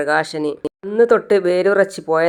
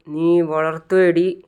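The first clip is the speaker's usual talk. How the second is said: slow, mildly angry jab; a touch of anger, drawn out slowly; mild angry retort; much slower than usual. Retold or imitated. Husband mildly angry at his defiant wife, slow. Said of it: "Prakashan ദേഷ്യം പിടിച്ചു പോയി".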